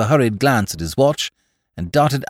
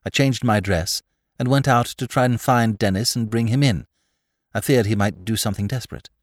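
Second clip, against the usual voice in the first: even, rehearsed confession; controlled statement in measured phrases; clear, hard recital; 3 semitones higher than usual. A narrator's reading. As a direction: recite it by heart, without emotion. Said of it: "Lady Mary began her confession in a clear, hard voice, as though she were reciting it by heart".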